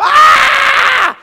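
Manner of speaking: high, loud shrieking scream; teenagers' scream. Retold or imitated. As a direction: shriek like startled kids. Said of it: "I thought I'd hear these teenagers go".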